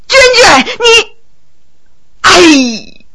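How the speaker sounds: high sobbing shout of grief; crying shout. Acted. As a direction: wail her name in grief. He cries over her death.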